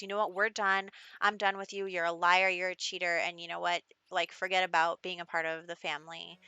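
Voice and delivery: loud, cutting accusations at a liar; angry breakup. Acted. Raven telling the cheating boyfriend off, loud and angry. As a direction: slam each line down like a verdict.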